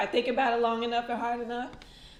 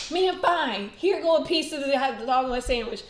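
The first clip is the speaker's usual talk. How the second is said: giving in; 3 semitones higher, 9 dB louder than usual. Retold or imitated. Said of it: "I'm like".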